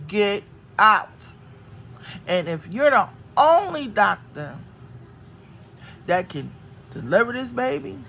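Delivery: loud, firm order to leave; retold scream. Woman in labor yells at the doctor to leave. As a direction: throw her out of the room. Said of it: "I was screaming".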